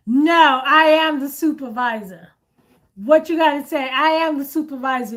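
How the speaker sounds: loud, sharp comeback; firm retort. Retold or imitated. Worker answering a rude caller, firm loud retort. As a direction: shut the caller down firmly.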